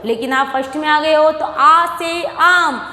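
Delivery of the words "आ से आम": slow आ से आम, vowels stretched; old recitation way. Shown as a demonstration. Teacher showing first class what to drop, slow recitation. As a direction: recite आ से आम as in a small-class drill. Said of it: "आम को तो भूल जाना है".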